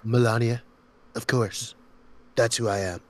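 lightly imitated self-assured politician; Donald Trump. Finishing his impression for friends, self-assured. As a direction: savour each word, mimicking a politician. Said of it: "I've been working on Trump".

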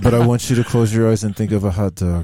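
lightly voiced stage magician; deliberate mock hypnotic patter; Chris Angel. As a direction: play a magician instructing a volunteer. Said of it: "your Chris Angel impersonation".

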